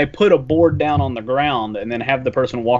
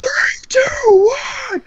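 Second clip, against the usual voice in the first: ride announcer; much slower than usual. Retold or imitated. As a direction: rev up the riders like a theme-park announcer. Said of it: "And it's like".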